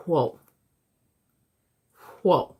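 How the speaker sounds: loud surprised exclaim; amazed whoa. Real, not acted. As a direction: let it out in awe. Amazed at the cards.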